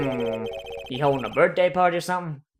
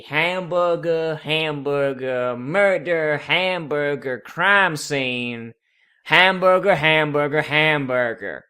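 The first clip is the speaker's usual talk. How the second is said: pretend reading; much slower than usual. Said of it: "pretend to read it".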